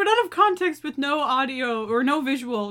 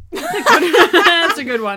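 laughing; 7 semitones higher, 16 dB louder than usual. Real, not acted. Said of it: "Do your best dragon impression".

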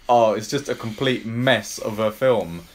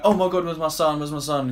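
higher-pitched imitation of a frantic parent; mock panic; 4 semitones higher than usual. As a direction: act out mild alarm over a missing child. Acts out missing panic over son.

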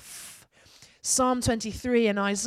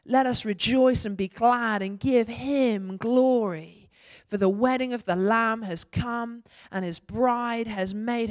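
raised, ringing reading of Revelation; scripture reading. Acted. Pastor reading Revelation aloud to the congregation, raised and ringing. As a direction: proclaim the vision to the congregation.

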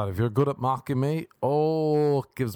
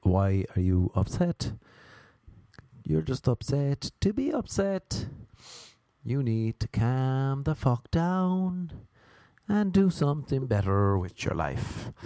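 slow, drawn-out mock exasperation; 3 semitones higher, slower than usual. Answering someone who got upset, mock exasperated. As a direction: lecture them slowly, rising in pitch as it goes. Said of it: "you'll be like".

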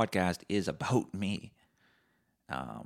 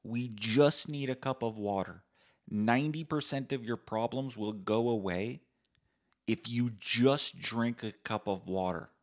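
body as a bro; 2 semitones higher than usual. Pretend. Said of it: "my body's like".

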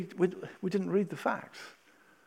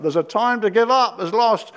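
forceful retort; 5 semitones higher, 8 dB louder than usual. Real, not acted.

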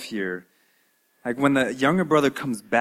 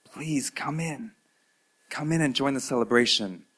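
pleading father; 5 dB quieter than usual. Acted. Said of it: "just pleads with him".

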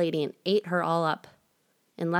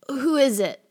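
1 grandmother; 7 semitones higher, 4 dB louder than usual. A narrator's reading. Grandmother calls.

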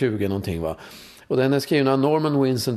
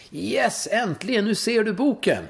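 joyful inner shout; 9 semitones higher than usual. Retold or imitated. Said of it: "jag bara skrek".

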